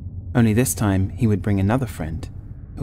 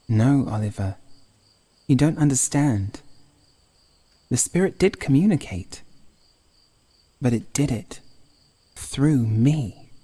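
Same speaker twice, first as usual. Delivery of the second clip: put-on a touch higher, earnest young woman pleading her case; lightly voiced Sadie; 5 semitones higher than usual. A narrator's reading. Sadie insisting to Oliver that the spirit spoke through her, earnest. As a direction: insist gently that the spirit was real.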